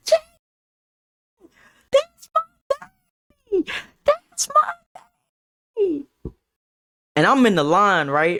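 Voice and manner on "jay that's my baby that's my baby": shrill, very high, excited screaming. Retelling an auntie calling out at graduation: imitating auntie screaming. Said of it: "She screams".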